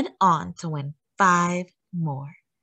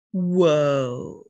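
amazed whoa; 4 semitones lower than usual. A narrator's reading. Amazed at world record.

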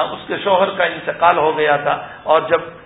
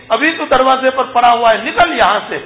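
put-on raised, higher scolding voice to throw the boy out; angry mother; 6 semitones higher than usual. (بیٹے کو گھر سے نکالتی ہوئی غصیلی ماں کی اونچی آواز)

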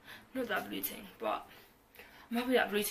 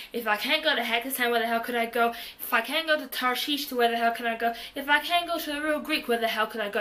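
a rising, louder comic rant; little outburst; 6 dB louder than usual. Real, not acted. Ranting to viewers about lockdown, comic louder outburst. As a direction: vent louder and louder at what's off-limits. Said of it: "sorry for a little outburst".

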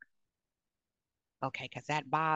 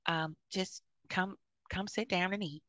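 auntie short with anger; 3 semitones higher than usual. Retold or imitated. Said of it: "she'd be like".

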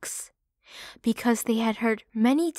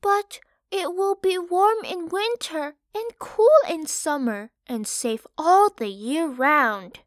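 much higher, louder start, then settling; sensible piglet; 7 semitones higher, 4 dB louder than usual. Acted. Park answering his teasing brothers, sure of himself. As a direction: calmly set them straight. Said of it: "Park said to them".

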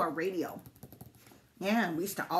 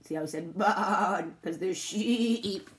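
slow wobbly bleat on "barn" and "sheep"; sheep-like stretched vowels in "barn" and "sheep"; bleating demo; slower than usual. Shown as a demonstration. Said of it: "That's called bleating".

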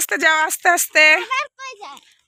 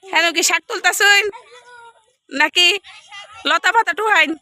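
playful Mymensingh dialect, raised and lively; 5 semitones higher than usual. Acted. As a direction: tease the imam in broad Mymensingh speech. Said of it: "একটু ময়মনসিংহের ভাষা বললাম". (ময়মনসিংহের আঞ্চলিক ভাষায় মজা করে)

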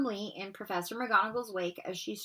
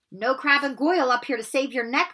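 calling out; 4 semitones higher, 5 dB louder than usual. Acted. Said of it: "Harry called".

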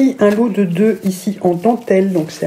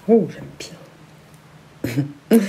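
drawn-out oh; 4 semitones lower, much slower than usual. Real, not acted. Admiring headband in mirror.

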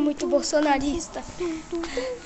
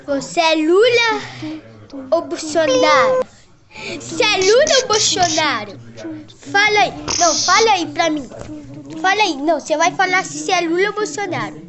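loud demanding; 5 dB louder than usual. Acted. Demanding answer loudly.

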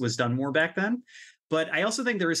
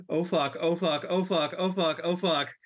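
breathless, frightened gasping curses; panicked swearing; 3 semitones higher than usual. Pretend. Listener confronting a giant ghost knight, panicked swearing. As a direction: mind shutting down in terror. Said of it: "your brain just shuts down".

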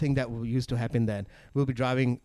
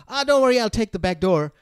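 casual son voice; 9 semitones higher, 5 dB louder than usual. Retold or imitated. Son reassuring mom casually.

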